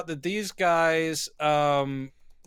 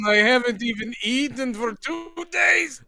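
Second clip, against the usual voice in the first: panicked shout; 7 semitones higher than usual. Pretend. Voicing sick villain.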